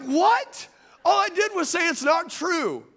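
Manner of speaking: high, incredulous mock defence; indignant protest. Dad accused of yelling at daughter, indignant protest. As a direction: jump up high in disbelief, acting wrongly accused.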